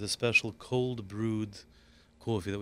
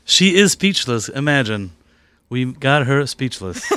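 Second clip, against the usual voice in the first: excited; 3 semitones higher, 10 dB louder, slower than usual. Real, not acted. Host stunned by cake, partner teases.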